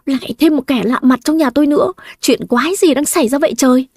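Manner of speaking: mock shout. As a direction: yell at the new stranger in disbelief. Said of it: "Tôi hét ẩm lên". (hét lên bực tức, giọng cao hơn)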